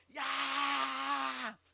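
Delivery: long, high imitated scream; drawn-out shriek; tremendous sudden scream. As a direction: mimic a sleeper's night scream. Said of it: "con un tremendo grito".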